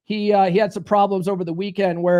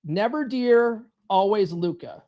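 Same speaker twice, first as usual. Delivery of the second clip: slow, deliberate mantra; drilled catchphrase, unhurried; repeat-after-me slogan; slower than usual. Shown as a demonstration. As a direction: space it out for the group to repeat. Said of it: "Say it with me now".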